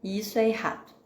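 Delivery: scolding parent. Retold or imitated. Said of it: "Vou dizer pra criança".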